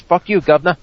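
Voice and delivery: put-on British accent, lightly done. Shown as a demonstration. Panelist shows off swearing for the group, British accent. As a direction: give it a touch of mock British. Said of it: "I can say it in British".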